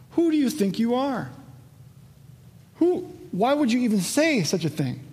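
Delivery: high-pitched incredulous demand; indignant challenge. Acted. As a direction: voice the Jews' outraged disbelief. Jews indignant at Jesus.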